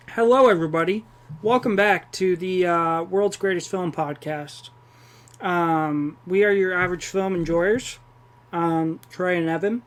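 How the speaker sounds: talking while chewing seeds; cracking sunflower seeds. Real, not acted. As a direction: mouth busy with sunflower seeds. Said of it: "I'm chewing sunflower seeds right now".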